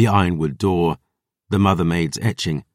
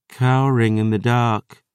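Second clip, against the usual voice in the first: sneering; 3 semitones higher than usual. Acted. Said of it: "Lily sneered".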